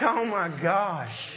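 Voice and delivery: laughing disbelief. Retold or imitated. His own overwhelmed reaction.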